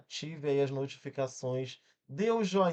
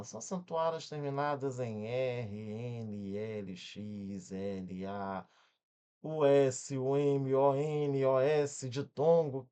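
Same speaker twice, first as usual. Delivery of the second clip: rote grammar-book recital; 2 semitones lower, much slower than usual. Retold or imitated. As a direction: recite it like a rule learned by heart. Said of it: "vou falar do jeito que você não precisa gravar". (regra decorada, recitada em ladainha)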